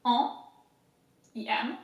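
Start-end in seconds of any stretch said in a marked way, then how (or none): 0.0-0.3 "En" as a French nasal vowel; isolated French nasal "En"; syllable by syllable. Shown as a demonstration. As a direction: say "En" on its own, French style. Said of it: "We'll do it again".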